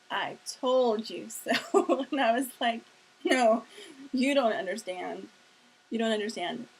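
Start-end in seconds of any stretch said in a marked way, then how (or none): 0.1-2.1 smug I told you so. Retold or imitated. Husband teasing at the door. 3.2-6.7 loud, insistent no, repeated; insistent protest. Retold or imitated. Telling her husband he doesn't get it, loud and insistent.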